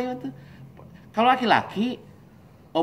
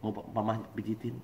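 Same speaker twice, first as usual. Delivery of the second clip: soft, lower-voiced offer; gentle caring wife; 4 semitones lower, 9 dB quieter than usual. Wife offering her troubled husband comfort, gently. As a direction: tend to him quietly, no pressure. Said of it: "perempuan ketika itu cuma tanya".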